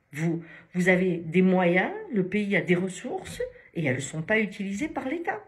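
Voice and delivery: exasperated patient's reproach, stressed hard; retold indignant reproach. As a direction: hammer out the retold accusation loudly. Retelling patient's reproach to France.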